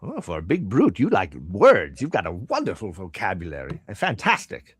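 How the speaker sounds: swooping, lilting merchant praise; impressed shopkeeper. Acted. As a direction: marvel at a customer's big words.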